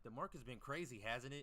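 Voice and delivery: mocking liars. Streamer mocking copy traders making excuses, fake innocent. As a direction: play the follower pretending the market was the problem. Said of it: "they gonna be lying".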